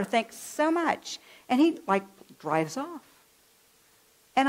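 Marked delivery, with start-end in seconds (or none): 0.0-1.2 sarcastic thanks. Retold or imitated. Sarcastic send-off to the driver.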